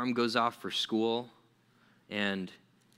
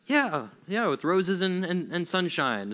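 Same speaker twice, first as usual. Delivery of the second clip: higher-pitched pretend cheer, settling down; mock joyful; 5 semitones higher, slower than usual. Moses happily saying yes to God, mock cheerful. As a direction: agree cheerfully, hammed-up at first. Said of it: "very joyfully, cheerfully was like".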